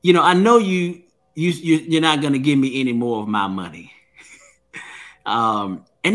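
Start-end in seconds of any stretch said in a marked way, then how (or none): 0.0-3.9 a hint of a mafia boss, a touch higher; bully at the desk, lightly mock mafia menace; mafia style. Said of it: "almost in a mafia style".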